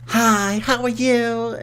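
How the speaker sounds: mock sweet greeting. Strangers at his door greeting him with a high mock-polite hello. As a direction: chirp it like a nervous stranger at the door.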